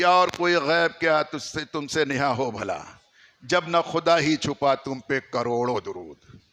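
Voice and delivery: slow, measured couplet recital; verse recitation. Acted. Preacher quotes Ala Hazrat's couplet, slow recitation.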